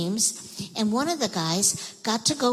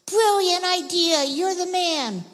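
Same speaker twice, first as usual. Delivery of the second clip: high, loud, slow delighted praise; excited praise; 10 semitones higher, 3 dB louder, slower than usual. Acted. Pharaoh praising Joseph's plan, high and delighted. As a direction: cheer the idea like a thrilled king.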